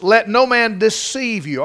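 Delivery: emphatic scripture warning, "deceive" punched; stress on deceive. Shown as a demonstration. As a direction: drive home the word "deceive" as a warning. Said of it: "I wanna put some emphasis on that word".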